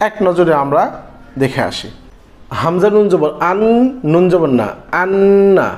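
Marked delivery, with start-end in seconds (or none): 5.0-5.7 "আন্না" with the nun said twice, once closing "আন" and once opening "না"; doubled nun. Shown as a demonstration. Teacher demonstrating a doubled nun with tashdid, nun held twice. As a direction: hold the nun across "আন্না". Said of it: "তার ডান পাশে হরফের সাথে একবার আর নিজে নিজে একবার".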